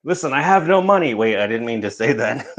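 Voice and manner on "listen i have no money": mock panicked plea. Mock reply to collector.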